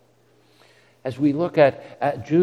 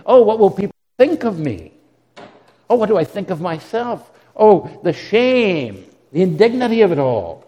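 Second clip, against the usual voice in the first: louder, mock moaning "oh poor me" lament; self-pitying remorse; 5 dB louder than usual. Remorse lamenting to itself, mock self-pitying moan. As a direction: ham up the wounded pride. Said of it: "Remorse looks in and says".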